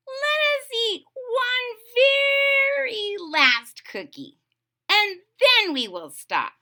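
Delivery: Toad's voice. Acted. Toad begging Frog for a last cookie, high slow plea.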